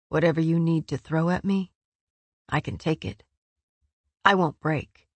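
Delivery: low, earnest plea. A narrator's reading. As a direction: plead steadily, without challenge. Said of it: "only a plea".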